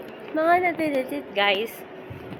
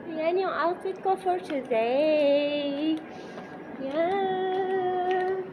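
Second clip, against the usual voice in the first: tipsy; 4 dB quieter than usual. Real, not acted. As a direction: talk a bit tipsy and loose. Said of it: "Nalasing na ako".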